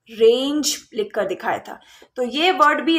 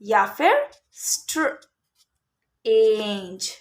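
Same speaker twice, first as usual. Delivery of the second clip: slow sounding-out; 3 semitones lower, much slower than usual. Shown as a demonstration. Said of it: "डीजीई नहीं".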